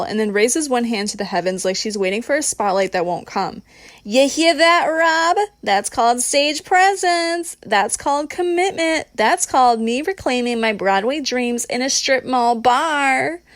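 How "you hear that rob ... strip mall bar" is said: high, slow brassy proclamation; Bronx belting. A narrator's reading. Christina boasts to Rob from the stage, belting it out. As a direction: belt it like a Bronx showboat. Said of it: "belts out in full Bronx belt tone".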